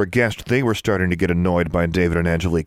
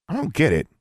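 grumbled; 8 semitones higher than usual. A narrator's reading. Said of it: "David grumbled".

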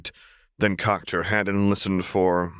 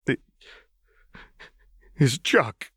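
hollow agreement; 5 semitones higher, slower than usual. A narrator's reading. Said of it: "he agreed hollowly".

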